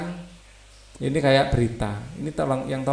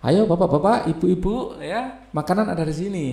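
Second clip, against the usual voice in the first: higher, upbeat call to the villagers, slowed in the middle; volunteer calling out; 5 semitones higher than usual. Acted. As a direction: play a cheerful relief volunteer handing out food. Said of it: "misalnya sebagai ini ya, relawan".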